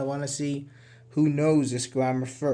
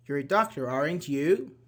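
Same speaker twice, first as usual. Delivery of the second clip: "aren't you" rising on "you"; rising tag intonation. Shown as a demonstration. Teacher asking a person about his job, rising on "you". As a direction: lift "you" at the end of "aren't you", expecting an answer. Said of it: "the U is like rising".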